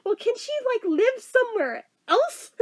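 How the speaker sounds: high mock child voice; bargaining kid. Child asking mom if sister can live elsewhere, high kid voice. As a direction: pitch up and imitate a kid negotiating.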